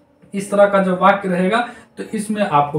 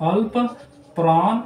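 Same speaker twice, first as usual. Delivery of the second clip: अल्प, a pause, then प्राण; split into parts; 3 semitones higher than usual. Shown as a demonstration. Teacher breaks अल्पप्राण apart for pupils. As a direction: say अल्प and प्राण as two separate halves. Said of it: "पहला होता है अल्पप्राण".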